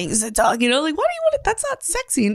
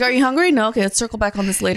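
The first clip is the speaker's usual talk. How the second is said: business talk; faster than usual. Pretend. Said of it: "talking to Luca in, like, business talk".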